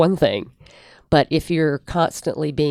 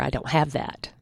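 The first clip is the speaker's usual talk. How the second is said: calm, no edge; 7 dB quieter than usual. Shown as a demonstration. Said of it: "there's no edge in my voice".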